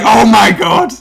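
shrieked imitation of an appalled wife; high, loud, scandalised outcry; Kirsty. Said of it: "Kirsty's like".

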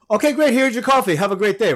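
bright, high-pitched service voice; chirpy high barista voice. Retold or imitated. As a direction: sing it out like an overly cheerful barista. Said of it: "they know my name".

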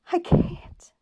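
high breathy whisper of fear; terrified plea. A narrator's reading. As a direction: plead in panic, barely voiced. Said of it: "he pleaded".

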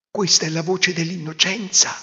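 put-on proud of his child; lightly voiced father. Father praising his daughter, mildly moved. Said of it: "disse il padre".

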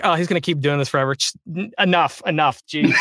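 mock, fast, fed-up voice of the gadget cutting him off; a laughing, exasperated enough; exasperated machine. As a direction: play the fed-up device. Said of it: "It was like".

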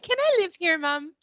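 put-on high, pleading kid voice; childlike plea. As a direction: beg like a grown child. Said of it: "it makes you wonder why you ever moved out".

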